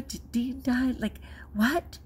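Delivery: whispered in mock alarm; panicked whisper. Teacher reading a sympathy card, frightened whisper. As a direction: breathe the fear out, barely voiced. Retold fearful reaction, whispered.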